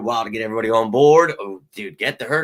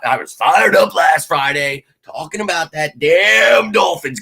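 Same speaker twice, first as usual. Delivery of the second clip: fired up; 5 semitones higher, 5 dB louder than usual. Real, not acted. Excited fan rant.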